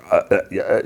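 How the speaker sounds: stammering string of "uh"s; imitated stutter. Caught by the shopkeeper, she stutters in imitation. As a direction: act out being lost for words. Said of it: "she kinda stutters".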